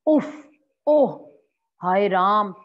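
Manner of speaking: loud wailing lament; anguished sighs of grief. Shown as a demonstration. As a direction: cry out in sorrow. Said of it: "शोक की बात यदि मैं कहती हूँ".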